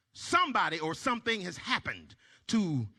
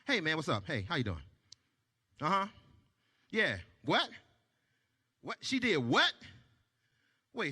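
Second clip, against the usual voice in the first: lower, softer voice taking a friend's call; friend on phone; 5 semitones lower, 4 dB quieter than usual. Retold or imitated. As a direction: play the caring friend picking up. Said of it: "I'll be like".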